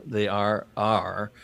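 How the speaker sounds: 'they are our' said slowly, word by word; slow careful repeat. Shown as a demonstration. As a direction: spell out 'are our' slowly and deliberately. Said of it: "I said "R R".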